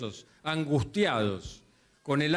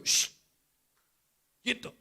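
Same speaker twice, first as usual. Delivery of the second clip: calm the storm with a hush. Pretend. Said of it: "Le habrá dicho".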